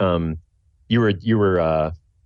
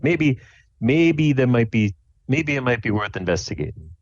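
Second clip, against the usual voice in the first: hesitant, musing dad with higher pitch; lightly voiced dad; 5 semitones higher than usual. Dad offers to look through adoption papers, lightly voiced. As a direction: think aloud as a dad offering help. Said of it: "and he says".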